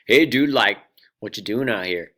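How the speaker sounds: casual surfer-dude call, loud at the start. Acted. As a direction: hail a swimmer like a laid-back surfer. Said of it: "I'll try my best surfer voice".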